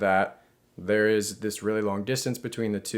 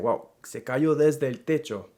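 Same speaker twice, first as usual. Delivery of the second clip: "desde" leaned on, a bit higher, pointing it out; pointing, desde stressed; 4 semitones higher than usual. Shown as a demonstration. Teacher acts pointing at a fallen man, stressing desde. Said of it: "I might be out pointing and saying".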